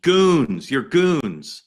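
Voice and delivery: imitating protesters shouting at ICE agents; mock yelling. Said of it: "they started yelling at ice".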